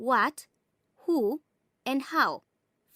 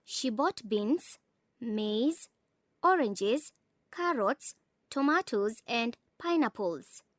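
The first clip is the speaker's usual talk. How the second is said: paused list, each item separate, falling on "pineapples"; falling list intonation. Shown as a demonstration. Narrator demonstrates a list for learners, falling on the last item "pineapples". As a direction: close the list with a drop on "pineapples". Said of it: "uttering the last item on the following list".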